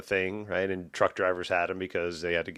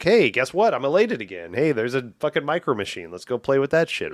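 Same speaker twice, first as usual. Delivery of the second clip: put-on high, loud, bouncy kid's glee; gleeful toddler; 5 semitones higher, 3 dB louder than usual. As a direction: gush like a thrilled toddler. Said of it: "It's like this, like".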